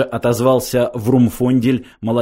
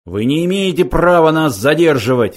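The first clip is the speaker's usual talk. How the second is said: raised, louder protest; indignant cry; 5 semitones higher, 5 dB louder than usual. A narrator's reading. Elder intruder protesting being held back, crying out. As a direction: protest loudly at higher pitch. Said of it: "вскричал старший".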